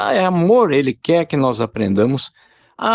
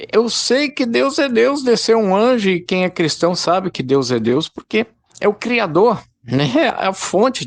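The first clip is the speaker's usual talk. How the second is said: fervent preaching; 7 semitones higher than usual. Real, not acted. Preacher to the brethren, fervently insisting God is God. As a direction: proclaim it like an undeniable truth. Preacher builds emphatic conviction.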